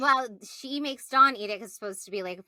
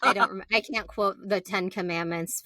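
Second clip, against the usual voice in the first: usual speaking voice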